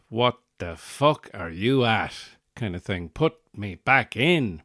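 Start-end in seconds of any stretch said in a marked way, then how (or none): 0.1-2.1 put-on belligerent drunk. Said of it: "he had this sort of belligerent". 3.1-4.6 put-on angry baby. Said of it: "kind of vibe to him".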